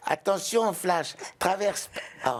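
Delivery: high, very slow snail voice; very slow slimy snail voice. Pretend. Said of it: "Est-ce que vous pouvez nous refaire la voix de l'escargot".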